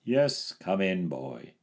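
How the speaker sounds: slow, kind welcome; kindly. A narrator's reading. Saint George kindly welcoming the boy, slow. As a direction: welcome him gently. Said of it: "said the saint kindly".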